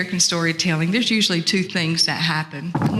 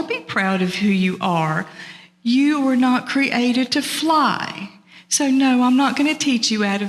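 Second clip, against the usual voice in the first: higher-pitched, emphatic refusal from a storybook eagle; firm eagle; 5 semitones higher than usual. Acted. Eagle tells turtle he was not created to fly, firm refusal. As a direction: tell a friend off, pitched up.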